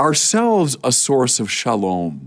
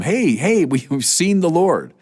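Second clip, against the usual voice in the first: higher-pitched, eager retelling of good news; excited announcement; 5 semitones higher than usual. Acted. Disciples telling Thomas they have seen the Lord, excited. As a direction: act out eager messengers, voice lifted.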